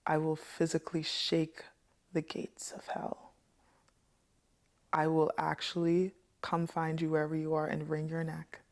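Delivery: retold threat, measured and deliberate, long pauses; quiet threat. Telling Satan to get this girl to church, quietly threatening. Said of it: "deliver my threats".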